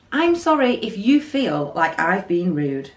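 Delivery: slow, drawn-out fake sorry; slow mock apology. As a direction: drag out a smug non-apology. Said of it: "When people say that ... it doesn't mean that they're sorry".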